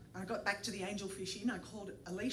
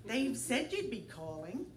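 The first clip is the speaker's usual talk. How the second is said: lightly feminine voice; 3 semitones higher, slower than usual. Retold or imitated. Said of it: "trying to impersonate a woman".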